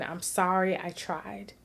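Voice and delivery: mild sorrowful apology. Retold or imitated. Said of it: "somewhat crying and saying".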